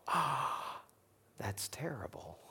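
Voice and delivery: soft whispered mock pity; fake sympathy. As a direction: pretend to be sorry, hushed. Mock sympathy over a breakup.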